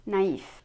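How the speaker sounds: naïf as "na-eef"; French naïf in two syllables. Shown as a demonstration. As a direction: say both vowels in naïf, joined smoothly. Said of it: "make them two different syllables".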